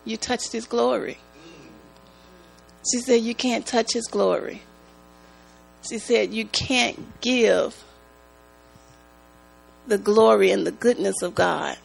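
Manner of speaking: mom's voice. Retold or imitated. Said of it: "That's how she said it".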